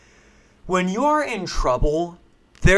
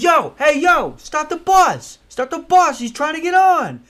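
high shouted call to the driver; hey, stop it for him; bystander yelling; 13 semitones higher than usual. Retold or imitated. Movie bystander shouting for the bus to stop. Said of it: "somebody's like".

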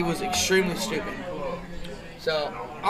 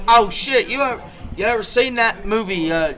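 dumb seaman's voice; 3 semitones higher, 3 dB louder than usual. Retold or imitated. Dumb seaman answers the bridge.

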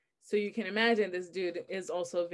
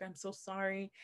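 soft, imitated sorry; retold apology; 9 dB quieter than usual. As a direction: quietly imitate a remorseful ex. Ex apologizing after hurting her.

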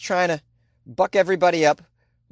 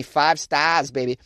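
Boston-style "five stars", R dropped; a touch of Boston swagger; Boston accent; slower than usual. Shown as a demonstration. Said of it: "That's how we say it in Boston".

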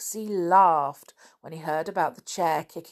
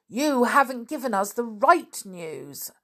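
higher-pitched, lightly acted angry reply; angry retort; 5 semitones higher than usual. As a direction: answer back crossly to the crowd. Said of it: "shouted back Peter angrily".

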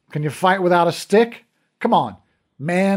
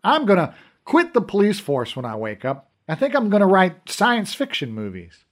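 loud and higher, cocky and gleeful; brash mockery; 5 semitones higher, 4 dB louder than usual. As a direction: show off loudly at the bedside. Brash cop mocking the dream.

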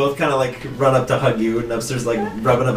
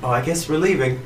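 higher, lively bird-character voice; Chatot saying goodbye; 4 semitones higher than usual. Acted. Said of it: "Chatot just goes".

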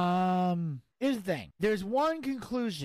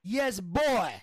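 put-on imperfect British accent catchphrase; amateur British accent impression; shaky British accent attempt; 2 semitones higher than usual. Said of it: "Work on your British accent".

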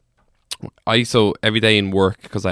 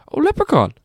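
imitating Brazilian friend; 4 dB louder than usual. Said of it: "And he goes".

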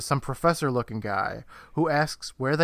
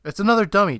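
louder, higher mock put-down; dismissive retort; 6 semitones higher, 5 dB louder, much faster than usual. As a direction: set a dim sibling straight, emphatically. Retold kid correcting his stepbrother.

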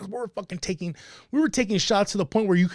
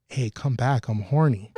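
reading her text; 5 semitones lower than usual. Retold or imitated. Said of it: "her text message was".

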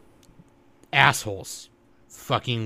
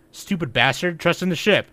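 higher, mock-gruff shipwright scolding; imitating Frankie; 6 semitones higher, 3 dB louder than usual. Frankie yelling at the crew to trust his ship, mock gruff. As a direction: bark it like a proud shipwright. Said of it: "And Frankie goes".

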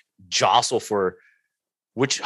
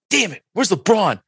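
disappointed; 10 semitones higher than usual. Retold or imitated. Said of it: "And I was like".

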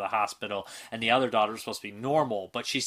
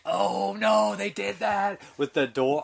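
mock realization; 10 semitones higher, 3 dB louder, much slower than usual. Recalling her own reaction.

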